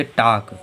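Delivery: टाक said as "tawk" with a silent L; teacher sounding out टाक for the class; model pronunciation. Shown as a demonstration. Teacher models टाक with the L kept silent. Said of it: "ऐसे क्या पढ़ेंगे?".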